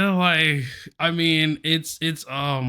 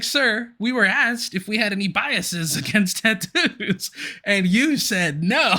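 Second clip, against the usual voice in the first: high-pitched indignant retort, laughter leaking in; heated disbelief, half laughing; 7 semitones higher, slower than usual. Retold or imitated. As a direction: confront them, slowing hard on the last words. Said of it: "I was heated".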